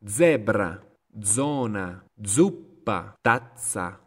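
Z pronounced as a firm "dz" or "ts" in Zebra, zona, zuppa, tazza; clear Italian Z. Shown as a demonstration. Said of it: "ahora estoy pronunciando la Z para que se entienda realmente".

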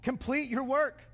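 mildly urgent taskmaster urging workers on; a touch of pushy impatience. Acted. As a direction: press them to get moving. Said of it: "The taskmasters then were urgent".

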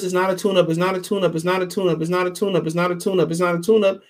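mocking repetition. Fight commentator parroting those who keep telling us, mocking repetition. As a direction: rattle it off as a monotonous refrain. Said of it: "you keep telling us".

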